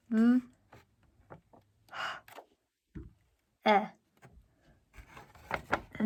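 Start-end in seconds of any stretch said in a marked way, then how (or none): 0.1-3.8 L, U, O, K spoken one letter at a time with pauses; sounding out letters. Shown as a demonstration. Teacher sounding out look for students, letter by letter. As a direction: slide through each letter of look slowly. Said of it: "the next one is the".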